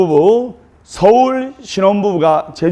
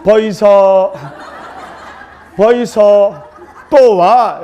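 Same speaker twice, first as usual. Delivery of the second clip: Gyeongsang wife; much slower than usual. Retold or imitated. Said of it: "경상도 신부가 경상도 신랑에게".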